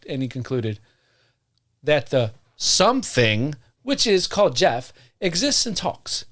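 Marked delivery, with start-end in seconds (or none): 3.8-6.2 put-on pitched up, old-timey, gentlemanly reading; Harry Price voice. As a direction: read like a prim Victorian investigator. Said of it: "turning him into goddamn Harry Price".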